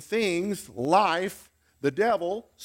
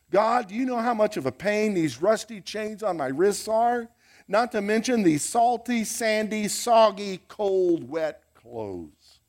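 complaining Paul; 4 semitones higher than usual. Pretend. Preacher voices complaining Paul.

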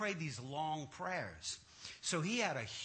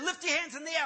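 high, raised mock-pastor voice; preacher's command; 8 semitones higher, 4 dB louder, faster than usual. Pastor ordering the man before praying, loud command.

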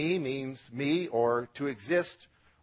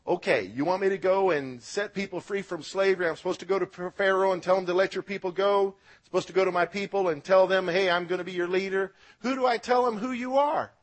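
Moses pleading; 5 semitones higher, faster than usual. Acted.

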